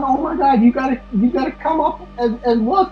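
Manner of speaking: very high, shrill panicked impression; hysterical mom. Mom panicking about the body in the attic, hammed-up hysteria. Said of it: "she's like".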